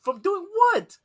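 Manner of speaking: high, loud incredulous ribbing; mocking laughing shout. Mocking coworker who fights moths, laughing shout. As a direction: tease him loudly, cracking up. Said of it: "I was like".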